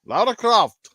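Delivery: "Lara Croft" with an open British "a" and a crisp "Croft"; a little bit of a British accent. Shown as a demonstration. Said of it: "with a little bit of a British accent".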